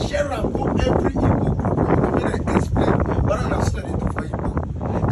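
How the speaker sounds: ordinary talk, nothing marked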